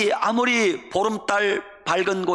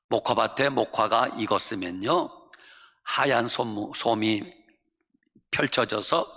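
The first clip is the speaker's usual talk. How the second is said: ordinary talk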